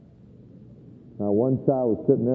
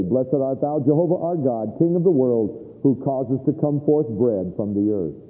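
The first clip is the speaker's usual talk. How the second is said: Jewish table blessing. Retold or imitated. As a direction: intone it like a father's prayer at the table. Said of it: "the father would say".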